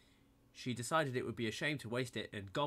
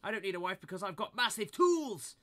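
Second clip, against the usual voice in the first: higher, louder tearful shout; higher, louder upset yell; upset outburst; 8 semitones higher, 6 dB louder than usual. A narrator's reading. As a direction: push her away near tears. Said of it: "And he started to cry".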